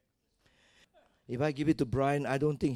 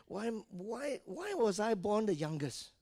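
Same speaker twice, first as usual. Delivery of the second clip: mock grumbling; 6 semitones higher, 6 dB quieter than usual. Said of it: "I grumbled".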